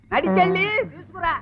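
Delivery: high, insistent command; exasperated repeated order. Acted. Husband repeats fetch order to wife, high and exasperated. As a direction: lift the voice and drive it home.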